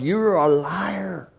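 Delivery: slow, loud, accusing cry; angry shout at God. Retold or imitated. Preacher reliving yelling at God, angry outcry. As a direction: hurl the accusation upward.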